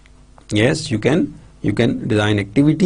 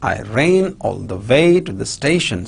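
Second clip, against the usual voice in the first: I RAN all the WAY to the STATION; sentence stress. Shown as a demonstration. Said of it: "these words are stressed".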